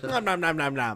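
munching noises. Retold or imitated. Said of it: "And Fred's like".

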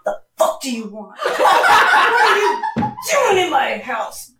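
mock tough dog voice cracking into laughter; Coda's dog voice. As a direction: play a cocky guard dog telling off an intruder. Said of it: "He'd be like".

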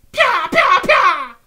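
shrieked high battle cry; macro yell. Retold or imitated. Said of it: "made a macro to say this in slash yell".

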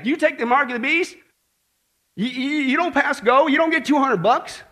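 preacher warning the congregation, loud and urgent; rising preacher fervor. Acted. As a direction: drive the point at the crowd.

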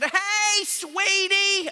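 high, sugary Southern lady voice; sweet old Southern lady. Retold or imitated. Pastor imitating an elderly daughter's Southern greeting. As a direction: coo it like a kind old woman. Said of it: "that's how she talked".

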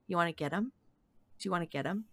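loud whisper. Retold or imitated. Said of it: "whisper kinda loudly to my dog".

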